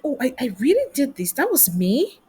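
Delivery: mock disbelief with swooping, questioning pitch; pleasantly surprised. Looking back on your own wins, pleasantly surprised. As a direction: voice dawning amazement at your own achievement.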